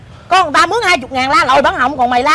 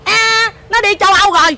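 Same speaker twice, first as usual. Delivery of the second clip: mimicking an extra stuck-up mother; higher, airy mock brush-off; even snootier mother; 6 semitones higher than usual. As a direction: imitate a grander, snootier mother. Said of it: "Má nó còn chảnh hơn nữa".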